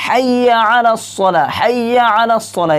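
slow হাইয়া আলা সলা without drawing out হাইয়া; no stretch. Shown as a demonstration. Teacher shows the correct হাইয়া আলা সলা. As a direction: say হাইয়া short, no extra pull. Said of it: "কীরকম করে পড়তে হবে?".

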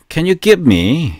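slow, drawn-out teaching read; slow model phrase. Shown as a demonstration. English teacher modelling the phrase slowly. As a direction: stretch each word for learners. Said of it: "오늘 표현은요".

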